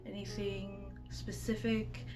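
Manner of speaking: ordinary talk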